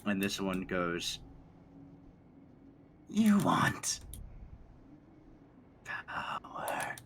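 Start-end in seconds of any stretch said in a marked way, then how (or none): 3.1-6.9 feral snarling. Acted. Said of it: "they both snarl at each other".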